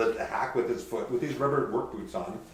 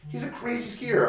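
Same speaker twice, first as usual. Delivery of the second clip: hyped bar patron; 12 semitones higher than usual. Retold or imitated. Bar patrons praising Bob.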